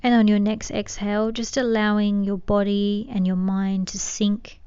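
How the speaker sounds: calm meditation guide with long pauses; unhurried, settling guidance, phrase by phrase; guided meditation. Acted. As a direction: gently lead them into stillness.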